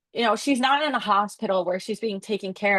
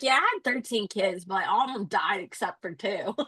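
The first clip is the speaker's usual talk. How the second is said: casual; 4 dB quieter than usual. Retold or imitated. Nurse mentioning her lost children to others, casually. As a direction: toss it off casually, as if it were nothing. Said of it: "she's just casually like".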